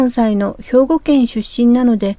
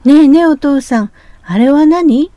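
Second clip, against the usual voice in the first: put-on eager child; 3 semitones higher, 4 dB louder than usual.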